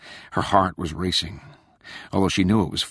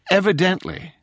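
dry; 12 semitones higher, 4 dB louder than usual. A narrator's reading. Rachel dry retort.

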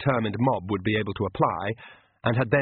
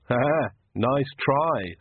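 sarcastic; 3 semitones higher, much slower than usual. Acted. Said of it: "said Magrat".

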